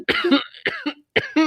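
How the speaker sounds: high forced cough; fake cough. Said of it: "Mom coughed a bit".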